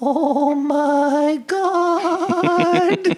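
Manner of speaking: very high, trembling voice, "God" stretched long. Retelling the moment a woman changed character, imitating her quivering voice. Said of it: "She changed character, her face changed, her quivered, her voice".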